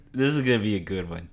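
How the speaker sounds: says it through a laugh; giggling, amused and upbeat. Real, not acted. Laughing, then repeats calmer.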